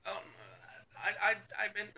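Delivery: put-on high, halting little-girl stammer. Little girl tries to answer her yelling parent, high stammer. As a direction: stumble over the start in a high voice. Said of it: "She's kind of like".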